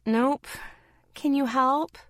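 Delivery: sweet. A narrator's reading. Girl asking her friend for help, sweetly. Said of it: "I asked, sweetly".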